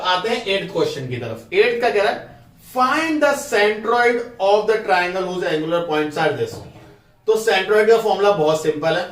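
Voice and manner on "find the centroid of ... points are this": slow, spaced reading of the question. Acted. Teacher reading question eight aloud to the class. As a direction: read it out for students to copy.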